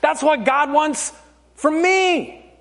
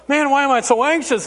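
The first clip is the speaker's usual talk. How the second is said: anxious racing thoughts; 2 semitones higher, faster than usual. Acted. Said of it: "crazy thoughts in your head and you're like".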